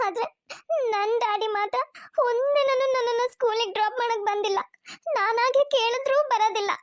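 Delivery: lightly voiced hurt child; a hint of a sulking young son; sad little boy. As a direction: complain to mum, on the edge of tears. Young son complaining to mother.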